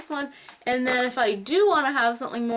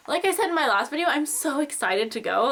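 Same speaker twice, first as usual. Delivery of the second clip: fast talking; 4 semitones higher than usual. Real, not acted. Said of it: "That's why I'm talking so fast".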